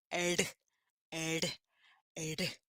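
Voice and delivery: short, separate R taps, kept soft; tapped weak R. Shown as a demonstration. Teacher demonstrating the weak R sound, tapped. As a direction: tap R quickly on the palate, one at a time. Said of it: "Batendo a língua rapidinho no céu da boca".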